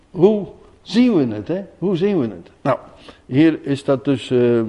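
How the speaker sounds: usual speaking voice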